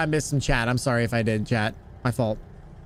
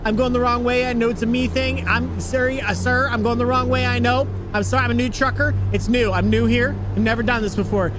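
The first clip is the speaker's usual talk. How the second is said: mock apology; 5 semitones higher than usual. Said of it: "you're gonna do right what you're doing now".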